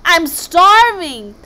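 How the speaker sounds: high, drawn-out hungry wail; loud cry. Acted. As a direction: cry it out, stretching the complaint. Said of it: "it cried".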